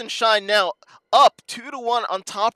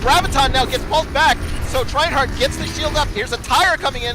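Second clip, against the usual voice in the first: fast, hyped play-by-play; excited commentary; 4 semitones higher than usual. Real, not acted. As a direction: call the fight with rising energy. Teamfight hype commentary.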